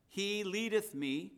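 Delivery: "He leadeth me", drawn out slowly for emphasis; "He leadeth me" said slowly, each word weighed; measured emphasis on the verse. Shown as a demonstration. Preacher showing the congregation where emphasis could fall, slow and weighed "He leadeth me". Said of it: "Now, the emphasis".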